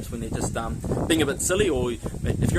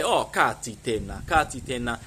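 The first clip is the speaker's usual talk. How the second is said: drawn-out, lower brush-off; mock "oh, stop it"; 4 semitones lower, slower than usual. Shown as a demonstration. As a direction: act out a slow "oh, stop it". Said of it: "as in like, "Oh, stop it".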